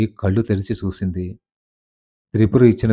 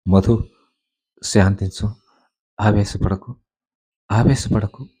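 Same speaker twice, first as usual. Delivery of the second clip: soothing. A narrator's reading. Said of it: "ఆమెను అనునయిస్తూ".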